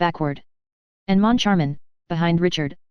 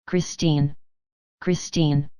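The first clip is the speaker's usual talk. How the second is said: moaning call; 3 semitones lower, much slower than usual. A narrator's reading. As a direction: moan her name in despair. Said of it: "He moaned, calling to her".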